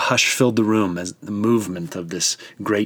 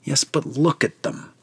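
a different, higher councilman's voice; third voice, higher; 5 semitones higher than usual. A narrator's reading. A doubting councilman objects, in a higher voice. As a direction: lift into a third plotting voice. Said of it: "a third voice says".

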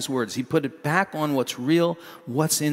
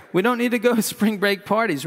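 fast, a bit higher, laughing at own line; laughing through it; 5 semitones higher, faster than usual. Real, not acted. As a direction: redo the line, breaking into a laugh. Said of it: "Why do I have that in here?".

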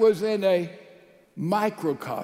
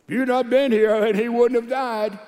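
raised, louder mock reproach; Martha's guilt trip; 4 semitones higher, 4 dB louder than usual. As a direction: lay the blame on them, higher and louder. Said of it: "Put Jesus on a guilt trip".

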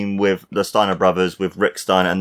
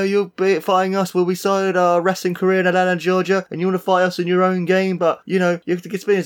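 imitating Scott Steiner; 8 semitones higher than usual. Quoting Steiner's fat asses promo.

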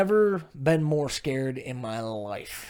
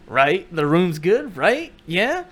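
climbing, louder questions; insistent prodding; 5 semitones higher, 9 dB louder, slower than usual. Acted. Husband pressing wife to agree the room's good, insistent. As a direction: push each question higher and loud.

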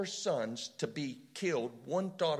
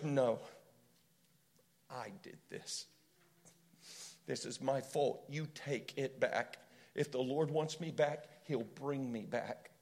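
contrite admission; 2 semitones lower, 4 dB quieter than usual. Retold or imitated. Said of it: "He goes".

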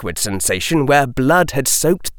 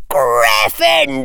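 high, slow booming bellow; 10 semitones higher, slower than usual. Acted. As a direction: boom it out like a hat. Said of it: "the hat bellowed in a voice so loud".

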